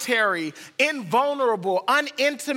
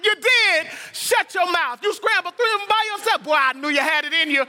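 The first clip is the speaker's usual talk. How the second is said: much higher and louder gushing hype; mock cheerleader excitement; 9 semitones higher, 4 dB louder than usual. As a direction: cheer like a friend lost his mind over scrambled eggs. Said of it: "I will be your biggest cheerleader".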